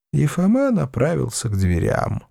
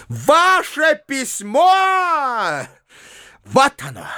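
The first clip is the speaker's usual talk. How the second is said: furious outburst; 11 semitones higher, much slower than usual. A narrator's reading.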